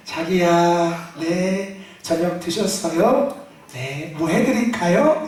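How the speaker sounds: lightly voiced, slow and low meek wife; meek sweet wife. Pastor imitating a gentle wife greeting her husband, slow and meek. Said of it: "겸손하게 여자처럼".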